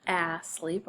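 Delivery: "a sleep" opened with short A as in apple. Shown as a demonstration. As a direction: demonstrate the wrong short-A start of "a sleep". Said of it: "the A is not short or long".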